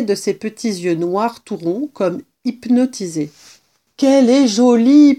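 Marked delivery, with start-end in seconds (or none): 4.0-5.1 higher, louder delighted exclamation; delighted admiration. A narrator's reading. Kitten admiring the mouse he caught, delighted. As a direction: marvel aloud at how pretty she is.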